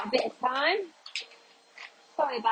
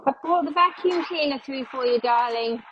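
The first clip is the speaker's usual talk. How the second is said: pointed, louder sweet-talk to her husband; unsubtle hint; 2 semitones higher, 5 dB louder than usual. Real, not acted. Hinting to her other half to take the vacuum, pointedly sweet. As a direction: lay the hint on thick, sugary and loud. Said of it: "drop a very unsubtle hint".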